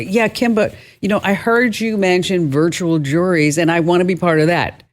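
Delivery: a listener piping up with a request; eager listener. Retold or imitated. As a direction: lightly voice a keen fan writing in. Voicing listeners who write in.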